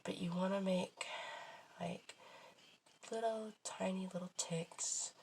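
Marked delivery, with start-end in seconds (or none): 1.8-5.1 whispering. Real, not acted. Whispering while drawing fine lines.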